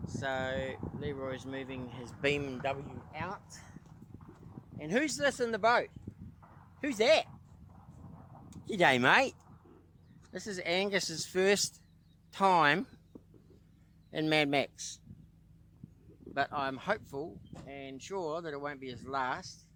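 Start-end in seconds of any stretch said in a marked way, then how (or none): 4.8-15.0 high, loud, bubbly greeting to the dog; excited dog greeting. Real, not acted. Owner greets his dog sitting in the boat, high and excited.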